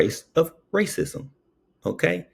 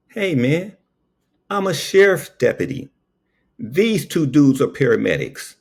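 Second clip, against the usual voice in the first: raised, official deputy voice; sheriff voice; 7 semitones higher than usual. Retold or imitated. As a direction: announce yourself like a deputy. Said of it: "the sheriff goes".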